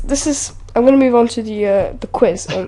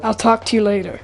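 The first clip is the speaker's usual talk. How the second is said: fairly convincing put-on American accent; central American accent. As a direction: imitate general American speech. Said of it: "that sounds pretty good".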